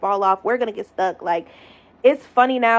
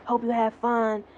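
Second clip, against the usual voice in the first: sarcastic parting shot; 2 semitones higher, 7 dB quieter than usual. Retold or imitated. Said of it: "and he like".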